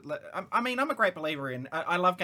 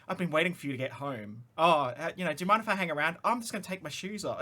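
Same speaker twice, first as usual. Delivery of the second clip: lightly voiced creepy killer, fast; a hint of a creepy stalker; serial killer voice; faster than usual. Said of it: "really made him sound like a serial killer".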